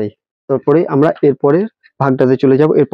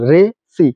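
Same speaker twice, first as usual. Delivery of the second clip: "রে সি" as two distinct, higher-pitched syllables; separated syllables; 5 semitones higher than usual. Shown as a demonstration. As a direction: sound out "রে", then "সি", each on its own. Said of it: "কয়টা সিলেবেলে ভাগ করে দেওয়া হয়".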